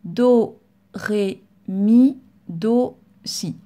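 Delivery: slow reading. Shown as a demonstration. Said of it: "il faut lire à peu près comme ceci".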